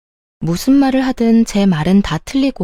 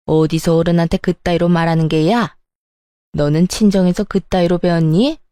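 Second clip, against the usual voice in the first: lightly voiced, offended mother-in-law; a touch of haughty outrage; scolding mother-in-law. Mother-in-law rebuking her daughter-in-law for talking back, mildly indignant.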